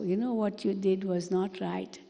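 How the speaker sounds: soft, gentle correction; said with love. Shown as a demonstration. Gently correcting someone who did wrong, with love. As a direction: tell them kindly, almost tender. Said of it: "I can say it with love also".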